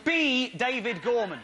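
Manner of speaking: nameplate read. Acted. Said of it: "mocking the nameplate".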